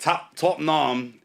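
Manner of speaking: "top nam" drawn out slowly with a long ah; mock Tottenham as "nam". Shown as a demonstration. Rapper rejecting the rhyme with Vietnam, slow "top nam". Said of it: "didn't have the same ring".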